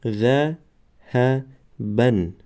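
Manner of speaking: "قمرون" drawn out syllable by syllable; slow demo word. Shown as a demonstration. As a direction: stretch "قمرون" slowly for the class. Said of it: "دیگرش". ("قمرون" آهسته و کشیده برای شاگردان)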